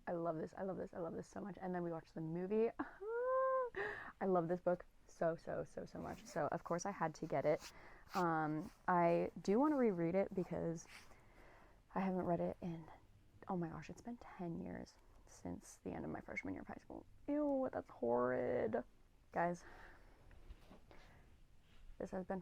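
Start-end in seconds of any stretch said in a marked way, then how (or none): 2.7-4.2 laugh. Real, not acted. Laughing about the movie. 13.5-17.0 shocked whisper. Real, not acted. Shocked by ten years passing. 17.3-18.8 slow, drawn-out mock disgust. Real, not acted. Mock disgust at own age.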